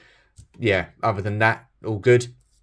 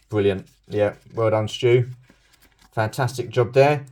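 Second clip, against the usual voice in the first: sarcastic self-praise. Real, not acted. Mocking himself for ripping comic.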